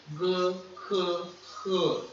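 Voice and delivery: "G, K, R" pushed from the throat; throaty aspirated consonants. Shown as a demonstration. Teacher letting learners feel it, "G, K, R" strongly throaty. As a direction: make the throat vibrate on "G, K, R". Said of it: "você sente como a sua garganta vibra".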